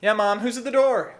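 low, hesitant creepy-neighbour voice; awkward neighbour. Acted. Plays awkward neighbour Daniel.

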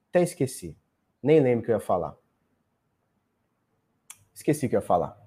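voz sumindo, cada vez mais baixa; trailing off. Real, not acted. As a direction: deixando a frase morrer aos poucos. Esqueceu o que ia dizer. (fala se apagando enquanto esquece)

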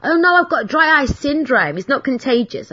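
high, chirpy cover story; mock breezy excuse. To the butcher, a high chirpy fake excuse. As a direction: brush off the tears with a bright fib. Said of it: "I love saying it".

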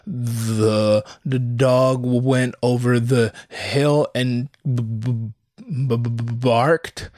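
slow, halting reading that sticks on b-; stammering kid reading. Retold or imitated. Mocking himself as a kid reading aloud in class, stammering. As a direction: stumble through the sentence like a nervous kid. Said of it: "the stammering kid who".

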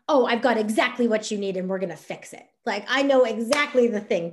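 pushy know-it-all sales push; overeager pitch. Shown as a demonstration. Coach mocking a pushy seller promising a fix, overeager.

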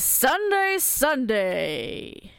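booming Sunday Sunday Sunday hype; monster truck ad. Pretend. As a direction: yell it like an arena promo. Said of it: "more of a Monster Truck thing".

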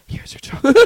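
high, loud teasing server call; mock loud announcing. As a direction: call out the order to embarrass the customer. Server teasing embarrassed customer.

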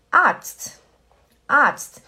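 Arzt with a long a, said loud. Shown as a demonstration. Teacher showing YouTube viewers the long a. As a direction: stretch the a in Arzt clearly. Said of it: "que é um A longo".

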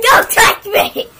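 hammed-up warning yell; mock yell. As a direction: bark it to keep her away. Shouts at sister.

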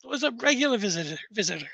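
polite, halting, lightly voiced caretaker; rambling graveyard caretaker. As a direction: reminisce wistfully, then excuse yourself politely. Game master voices the caretaker.

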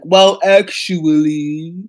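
slow smug drawl; mansplaining well actually; condescending. Retold or imitated. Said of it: "Grindelwald's like".

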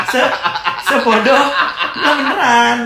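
loud, high-pitched laughing protest. Real, not acted. Joking about hotel steak at a street stall, laughing. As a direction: insist through loud laughter.

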